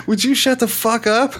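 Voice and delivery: high-pitched outraged demand; hammed-up indignant outburst; mock aggressive. Shown as a demonstration. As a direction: confront them in exaggerated disbelief. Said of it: "comes at you real aggressive".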